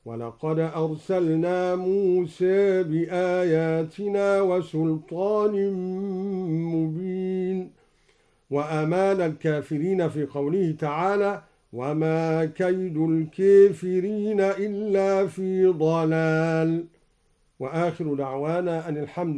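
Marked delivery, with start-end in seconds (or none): 0.0-7.7 موسى ending tilted toward muse, chanted slowly; taqlil on موسى. Shown as a demonstration. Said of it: "قرأ بتقليل موسى هكذا". 11.7-16.8 slow, chanted tajweed recitation; Quran recitation. Shown as a demonstration. Recites verse.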